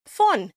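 Fun said alone as a clear "fawn"; isolated, falling Fun; second syllable demonstrated. Shown as a demonstration. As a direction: give Fun by itself, firmly. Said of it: "The next one, even simpler".

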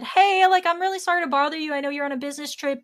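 high, hurried retold apology; apologetic plea. Employee phones owner on a business trip, high and apologetic. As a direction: re-enact an anxious sorry-to-bother-you call.

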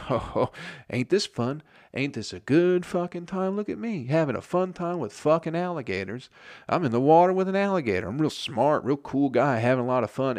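high, smug fool bragging; mock dumb guy. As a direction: play the cocky idiot showing off.

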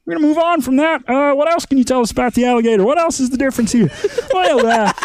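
mock Aussie wildlife presenter; Australian accent. Robert Irwin explaining crocs on a talk show, light Aussie accent. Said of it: "Oh, good day, mate".

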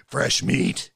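hammed-up predatory stage whisper; leering whisper. Bar customers eye a new server, leering whisper. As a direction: whisper it like a lecherous barfly.

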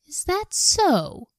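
high, slow, scoffing "Is that so?"; mocking retort. Pharaoh scoffing at Moses, slow high mock retort. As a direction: drag it out like a sneering king. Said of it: "retorted Pharaoh".

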